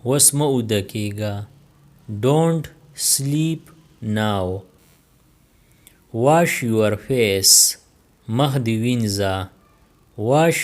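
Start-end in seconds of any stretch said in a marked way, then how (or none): 2.3-4.6 very slow repeat. Shown as a demonstration. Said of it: "very slow repeat".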